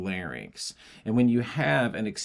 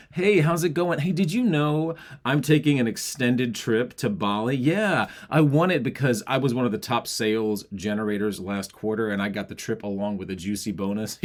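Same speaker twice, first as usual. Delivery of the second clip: pushy agenda voice. Shown as a demonstration. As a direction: push your accomplishments on them. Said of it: "my muscles engaged more because I'm forcing an agenda on you".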